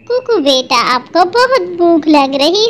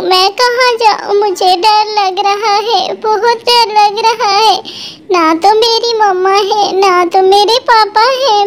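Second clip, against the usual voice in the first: put-on frightened little girl; 3 semitones higher than usual. Orphan girl lost parents in flood.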